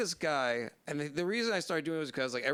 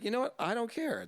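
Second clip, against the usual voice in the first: much higher, giddy mock Costanza logic; gleeful decision; 9 semitones higher than usual. Teller imitating himself eyeing garbage food, giddy and high. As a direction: announce it like a bold triumph. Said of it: "I was like".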